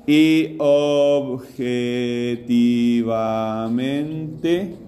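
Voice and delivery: very slow, sustained syllables rising at the end; teacher slowly cueing an answer; drawn-out prompting. Real, not acted. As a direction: stretch each syllable and leave it hanging.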